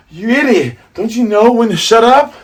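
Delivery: high, loud exasperated scolding; mock angry yell. Voices crew scolding Luffy.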